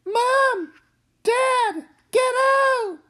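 very high screaming; terrified screams. Acted. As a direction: scream in terror. Kids scream as car falls.

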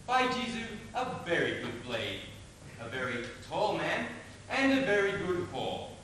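mocking imitation of an affected gallant; affected fop. Mercutio mocks fashionable accents to his friend, affected. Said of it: "lisping, affecting fantasticos".

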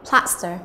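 "plaster" stressed on PLAS; first-syllable stress. Shown as a demonstration. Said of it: "là trọng âm thứ nhất".

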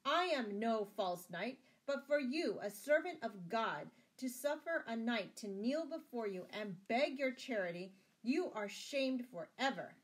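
high, loud ringing rebuke; indignant cry. A narrator's reading. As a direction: denounce him loudly, wounded honour rising. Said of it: "cried Sir Richard".

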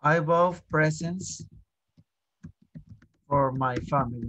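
slow, careful teacher model; slow model sentence. Shown as a demonstration. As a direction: say it slowly so the class can copy. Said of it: "teacher models sentence slowly". (frase modelo lenta)

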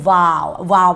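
"vowel" said as one syllable, VAO, with a V; "vowel" modelled for pupils as VAO; model pronunciation. Shown as a demonstration. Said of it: "ไม่ออกเสียง".

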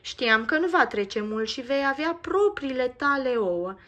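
said with an audible smile; smiling. Acted. Nico tells Max she knew the eggs would come, smiling. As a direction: speak through a smile. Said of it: "mai spune ea zâmbind".

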